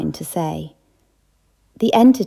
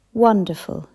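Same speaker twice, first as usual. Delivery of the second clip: choked; 2 semitones higher than usual. Acted. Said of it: "he said in a choked voice".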